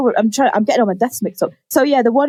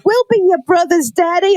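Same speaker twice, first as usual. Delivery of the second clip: put-on higher sweet child offer; little boy; 7 semitones higher than usual. Sons comforting their dad, lightly childlike. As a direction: say it like a small kid comforting.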